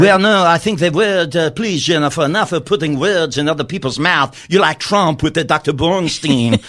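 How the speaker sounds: lightly put-on French accent, playing an offended Macron; a mock Macron defending his word "delicious"; fake French accent. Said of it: "I'm not doing French. I'm doing just something".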